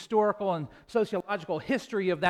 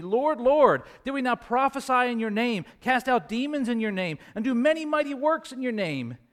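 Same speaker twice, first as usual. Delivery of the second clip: higher-pitched, mildly acted appeal; insistent plea; 5 semitones higher than usual. Preacher voicing those pleading at the judgment, insistent appeal. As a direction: plead your case in a raised, quoted voice.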